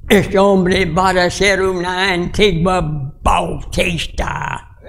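slow, drawn-out imitation of grandfather; grandfather's pronouncement. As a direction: imitate a grandfather solemnly declaring it, word by word. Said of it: "mi abuelo dijo a su hijo".

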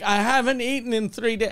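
mock pleading sales spiel; telemarketer pitch. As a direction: imitate a beggar working through a script. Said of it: "like they were working in telemarketing".

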